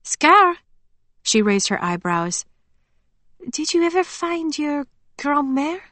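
put-on eager farm girl, relieved and chatty; bubbly young woman. A narrator's reading. Emily voiced by narrator.

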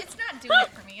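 lachend gezegd, hoog en luid; laughing. Real, not acted. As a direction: zeg het door je lach heen. Teasing friend while laughing.

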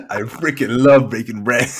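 slow, laughing echo of the co-host; laughing mimicry. Quoting co-host's snippet back to them, laughing. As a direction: repeat it teasingly through real laughter.

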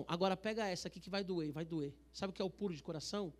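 normal talking voice

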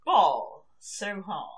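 slow posh try at street slang, said cleanly; careful posh delivery of street slang; clean slang take. Pretend. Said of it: "One more time. Give me a good, good, super clean take".

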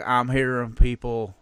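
exaggerated Southern twang; mimicked Southern speech; Southern accent. Shown as a demonstration. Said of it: "not, not as pronounced".

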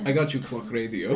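giggling through a silly sitcom line; laughing mock line. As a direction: laugh it out as you quote.

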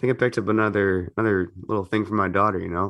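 hoarse, sick morning voice. Real, not acted. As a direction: talk through a hoarse throat. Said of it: "I'm starting to sound like a hoarse old man".

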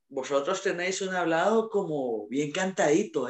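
lightly imitated Spain accent; imitating a Spaniard. Spaniard remarking on how Hondurans talk, mock Spain accent. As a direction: quote a Spaniard with a touch of their accent. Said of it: "Me dicen".

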